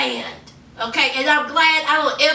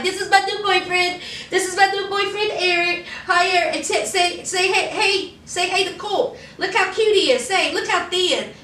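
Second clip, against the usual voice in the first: higher put-on voice, showing off a new boyfriend; mock cooing introduction; 3 semitones higher than usual. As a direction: imitate someone coaxing him to say hey. Mimics woman showing off new boyfriend.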